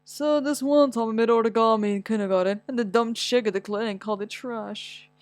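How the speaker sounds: lightly voiced adult man telling an anecdote; imitating grown Dante. Grown-up Dante mocking the dumb chick at the clinic, lightly voiced. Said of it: "I bet this story will come up at an office party".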